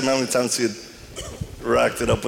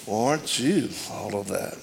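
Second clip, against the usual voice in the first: put-on teasing girlfriend; 5 semitones lower, 6 dB quieter than usual.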